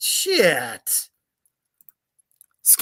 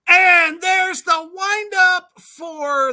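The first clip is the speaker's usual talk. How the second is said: sportscaster voice; 12 semitones higher, 9 dB louder, slower than usual. Pretend. Mock sports call.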